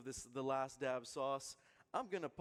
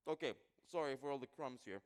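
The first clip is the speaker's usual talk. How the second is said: crunching cracker. Real, not acted. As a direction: mouth full of cracker. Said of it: "I've thrown down a lot of crumbs".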